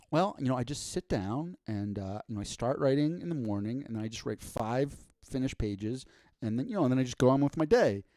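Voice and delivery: casually matter-of-fact, speeding up at the end. Retold or imitated. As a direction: brush it off like it's nothing. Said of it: "he said it so matter-of-factly".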